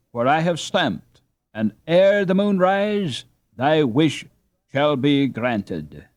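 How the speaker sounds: high, mock-grand fairy decree; playful solemnity. Annie as fairy godmother granting Hans his wish, mock-grand. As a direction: pronounce it like a fairy queen. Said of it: "with playful solemnity".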